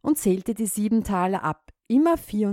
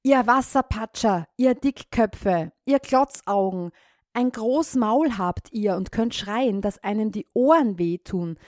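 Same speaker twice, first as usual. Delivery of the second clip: raised, scolding rant; 3 semitones higher than usual. Acted. Farmer scolding the frogs, exasperated rant. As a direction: tell them off, exasperated. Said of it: "schimpfte er die Frösche aus".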